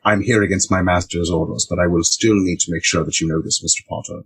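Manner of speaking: a hint of a stiff proper servant; formal Dobby. Podcaster voicing a polite elf to cohost, lightly formal. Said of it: "formal Dobby".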